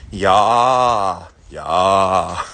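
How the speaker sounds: long drawn-out Minnesota "yah"; mock Fargo-style Minnesota accent. Southerner quoting the movie Fargo in a Minnesota accent. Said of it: "I always think of Fargo".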